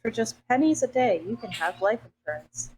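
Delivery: chipper 1950s ad. Pretend. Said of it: "mixing a lot of commercials".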